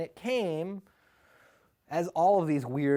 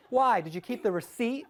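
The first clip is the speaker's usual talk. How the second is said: little brother; 6 semitones higher, 3 dB louder than usual. Retold or imitated. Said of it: "my little brother was like".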